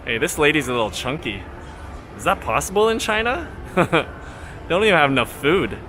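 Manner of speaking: mock tourist vlogger. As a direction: lay the fake outrage on with a straight face. Satirical tour commentary.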